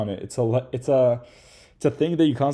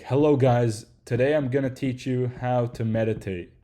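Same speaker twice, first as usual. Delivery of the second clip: stiff script reading; 2 semitones higher, 3 dB louder than usual. Retold or imitated. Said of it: "word for word scripts".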